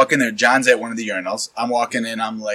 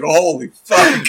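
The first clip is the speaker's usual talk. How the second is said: amazed; 4 semitones higher, much slower than usual. Retold or imitated. Retold reaction to a long one.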